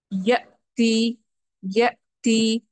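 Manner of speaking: یاتی with a sharp glottal stop on the hamza; hamza with a jolt. Shown as a demonstration. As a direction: cut یاتی off abruptly at the hamza. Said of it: "تو جھٹکا جو ہے وہ یا کا مخرج ادا کر کے آ رہا ہے". (یاتی جھٹکے کے ساتھ)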